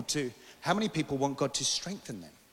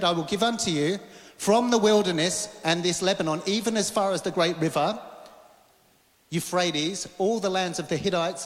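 raised, emphatic preacher's delivery; forceful preaching; 4 semitones higher, 4 dB louder than usual. Acted. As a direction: drive the point home to a congregation.

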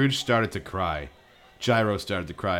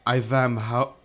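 lightly put-on foreign villainess; halting, as if hunting for the English; Magica's snarl; 4 semitones higher, 4 dB louder, slower than usual. Sorceress announcing her news to Scrooge, lightly acted foreign snarl. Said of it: "snarled Magica".

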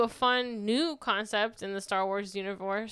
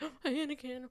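mock swoon; 4 semitones higher, 3 dB quieter than usual. Mock swooning villain quote.

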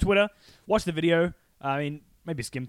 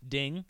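ding sound effect; 6 dB quieter than usual. Pretend. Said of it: "a little sound bite of you going, ding".

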